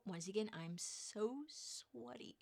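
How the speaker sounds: sheepish confession. Real, not acted. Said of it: "I need to note".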